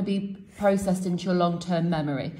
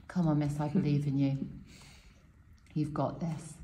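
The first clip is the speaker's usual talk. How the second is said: low, soft words of reassurance; soft encouragement; 5 semitones lower, 8 dB quieter than usual. Real, not acted. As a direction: quietly cheer her on, pitched low. Encouraging colleague before her attempt.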